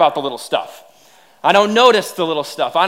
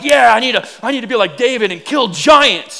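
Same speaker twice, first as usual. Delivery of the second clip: louder, pumped-up; mock eager; 4 semitones higher, 5 dB louder than usual. Church folks imagining slaying Goliath, mock eager cheer. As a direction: cheer it like a pep rally. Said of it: "And we're like".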